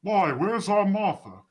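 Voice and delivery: high sped-up chipmunk voice. Real, not acted. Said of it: "earlier you sounded like a chipmunk".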